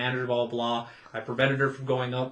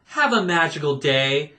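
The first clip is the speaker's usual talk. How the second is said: snarky cheer, Have a magical day said with a sharp sneer; 6 dB louder than usual. Shown as a demonstration. Cast member snarks at a rude guest, snarky. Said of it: "like, snarky".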